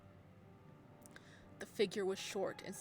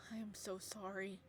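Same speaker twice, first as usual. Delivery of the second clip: softer, gentle apology; tender apology; 5 dB quieter than usual. Acted. Hemos apologizing to the narrator, soft and tender. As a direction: soothe her softly.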